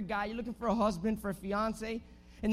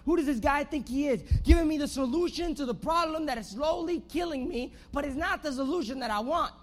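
worked-up indignant complaint, mildly raised voice; mock angry outcry; 3 semitones higher than usual. Naaman complains about the prophet's cure, mock angry outcry. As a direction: rant indignantly as the offended man, short of screaming. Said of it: "gets angry and he starts screaming out".

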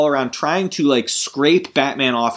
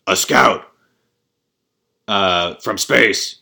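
Bruce Wayne quote; 4 semitones lower, 3 dB louder, slower than usual. Retold or imitated. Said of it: "Bruce Wayne goes".

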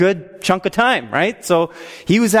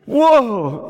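high, drawn-out whoa; hammed-up awestruck exclamation; acted spiritual intoxication; 6 semitones higher than usual. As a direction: reel with overwhelmed wonder. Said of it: "like I was intoxicated with the Holy Spirit".

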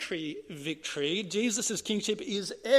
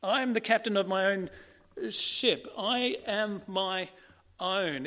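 defiant rebel; 3 semitones higher, 4 dB louder than usual. Retold or imitated. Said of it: "we're saying".

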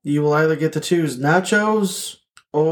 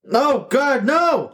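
higher, hammed-up plea for mercy; mock panic; 8 semitones higher, slower than usual. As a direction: beg for your life, half-joking. Being attacked by the murderer.

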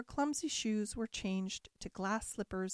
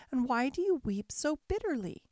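fairy godmother voice; 5 semitones higher than usual. Acted. Fairy godmother asks weeping Cinderella why she is sad, high kindly voice. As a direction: lift into a gentle old fairy's voice.

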